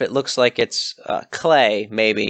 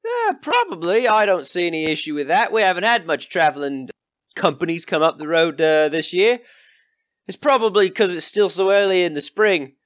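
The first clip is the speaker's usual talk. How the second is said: high, brash country villager; rough villager; 5 semitones higher than usual. Acted. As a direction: greet travellers as a nosy local. GM voices a villager.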